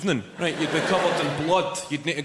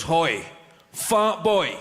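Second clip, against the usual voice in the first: mock shout; 2 semitones higher, much slower than usual. Madman across the road yelling at comedian, mock shout. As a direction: bawl it like a street madman. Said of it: "the guy shouts".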